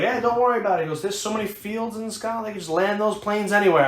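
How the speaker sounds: lightly voiced drunk pilot. Drunk Scottish pilot quoted.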